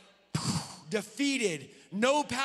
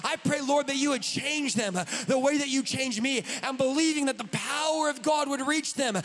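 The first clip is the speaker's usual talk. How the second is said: demo prayer. Shown as a demonstration. Showing how to pray for a stranger, fervent prayer. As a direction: pray over a stranger with conviction. Demonstrates praying over stranger.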